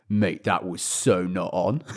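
slow, imitated posh disapproval; posh mate. Shocked posh friend to his bleeding mate, slow posh reproach. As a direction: draw it out in a mildly posh accent. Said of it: "who was also another posh guy".

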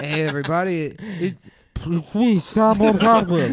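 high, loud puffed-cheek caricature; mock him in a squeaky voice; squeaky falsetto mockery. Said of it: "That's not what I sound like".

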